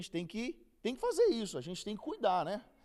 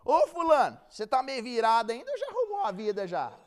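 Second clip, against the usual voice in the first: sister calling out loud; 3 semitones higher, 7 dB louder than usual. Retold or imitated. Church sister calls the man out in front of everyone, loud. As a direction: belt it out like a blunt church sister. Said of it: "e ela".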